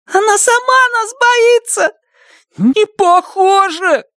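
high, tense arguing; agitated. Acted. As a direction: argue in a panic. Heated argument about the dog.

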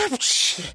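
sharp sneeze sound; mock sneeze. A narrator's reading. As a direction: burst out a quick sneeze. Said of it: "чихнув".

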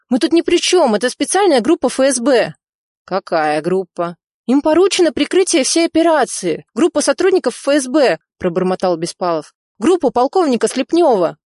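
frightened official. Acted. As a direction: blurt names out in fear. Narrator voices frightened Bespalov.

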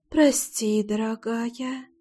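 soft, slow, sneering whisper; mocking whisper. A narrator's reading. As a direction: drop to a slow hush, mock tender. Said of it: "прошептала она".

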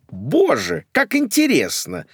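mother's mock delight. Mother reacts at once, gushing and high. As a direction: gush like a grand dame. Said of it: "не замедлила отреагировать маменька".

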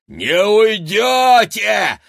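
high, slow furious shout; yelling. A narrator's reading. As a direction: scream it out, dragging the words. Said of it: "завопила Рагнеда".

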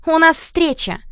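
put-on girl snapping back at the jeering boys; flaring retort. A narrator's reading. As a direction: fire it back, flustered.

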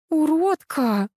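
a mild hint of crying, drawn out; tearful wife disgusted by the car. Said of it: "со слезами на глазах произнесла Юля".

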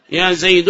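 "زيد" ending in -un; wrong tanween. Shown as a demonstration. Teacher repeats the bad example, "زيد" said Zaydun. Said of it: "لا يصلح هذا".

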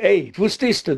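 a high mock shout; retold shout. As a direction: call it out high like a scolding. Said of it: "es nimmt sich schreien".

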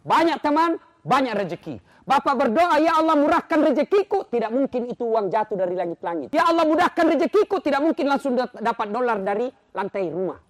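loud, high-pitched sermon at full force; fiery preaching. Acted. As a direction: preach it to the whole hall.

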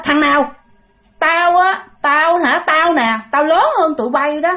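imitating a cocky old drunk, lording it over the table; possessed young man in a ghost's elder voice demanding rice wine; bossy elder voice. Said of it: "bắt đầu nói cái giọng giống như là lớn dữ lắm".

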